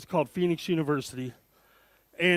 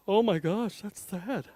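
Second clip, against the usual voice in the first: soft, hushed mock pity; a touch of a sorry-for-you sigh; pitying mom; 7 dB quieter, slower than usual. Mom's look voiced in hushed pity. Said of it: "Big eyes".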